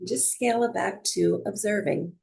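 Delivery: calm, unhurried meditation guidance with long pauses; measured yoga teacher cueing, leaving space between phrases; guided breathwork. Real, not acted. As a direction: guide them gently into noticing the breath.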